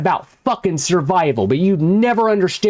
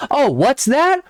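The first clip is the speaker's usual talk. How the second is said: higher, mock-surprised sarcasm; sarcastic; 5 semitones higher than usual. Real, not acted. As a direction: fake amazement, dripping sarcasm. Mocking subscriber numbers.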